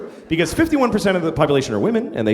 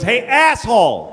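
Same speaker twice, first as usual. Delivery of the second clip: high, drawn-out angry call; furious driver; 6 semitones higher, 4 dB louder, slower than usual. Retold or imitated. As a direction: holler slowly at the other car.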